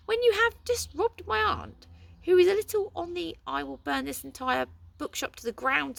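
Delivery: squeaking in alarm; high-pitched panic. A narrator's reading. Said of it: "in an unnaturally high-pitched voice".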